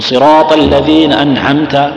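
"أنعمت" with a rasped, hoarse ain, slow; hoarse ain imitated. Teacher imitating poor reciters, rasping the ain in "أنعمت". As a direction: drag "صراط الذين أنعمت" out with a rough ain. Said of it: "تسمعون البحة ذي؟".

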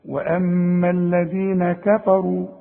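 slow كفروا with a thin light ك and ف. Shown as a demonstration. Teacher reciting the correct thin كفروا. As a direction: keep كفروا unthickened, carefully. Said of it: "حرقة الكاف ودائمًا ترقق".

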